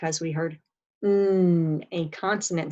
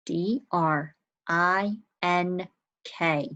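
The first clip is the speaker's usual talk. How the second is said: letters of "drink" spaced out slowly; slow spelling; slower than usual. Shown as a demonstration. Teacher slowly spells the word for young students. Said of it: "How'd you spell drink".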